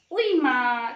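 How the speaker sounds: lightly acted ouch; mock cry of pain. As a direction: cry out as the tummy aches. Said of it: "तभी मीना चिल्लाने लगी".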